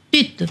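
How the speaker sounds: تت with a crisp, light تا; soft, crisp تت; distinct ta sound. Shown as a demonstration. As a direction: show the تا sound apart from تو. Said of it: "تا کا sound الگ آئے گا".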